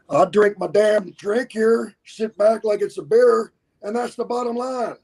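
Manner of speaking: gravelly, high-pitched wrestling promo voice; Stone Cold Steve Austin impression. Shown as a demonstration. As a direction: growl it like a wrestler's promo catchphrase, pitched well up. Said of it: "same kind of Gravely voice".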